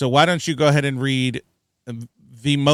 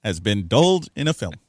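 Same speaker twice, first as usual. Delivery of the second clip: Obama voice. Retold or imitated. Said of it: "the Obama voice".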